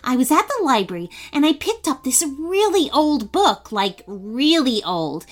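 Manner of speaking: excited rush. Acted. Abigail tells news excitedly.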